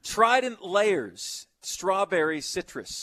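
drawn-out teasing emphasis; mocking slow read. Real, not acted. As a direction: spell it out slowly, teasing. Reads friend's gum choice mockingly.

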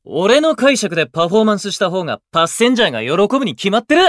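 rising to a loud, fast insistence; heated insistence. Acted. Arguing with his bandmates over the theme, insisting loudly and fast.

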